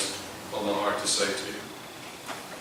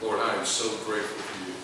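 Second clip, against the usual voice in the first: humble grateful prayer. Pretend. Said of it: "Walk humbly before God".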